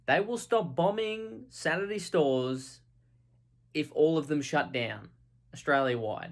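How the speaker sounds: lightly voiced official; mock official. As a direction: deliver the demand like a stiff spokesman. Mock negotiator relaying terrorist demand.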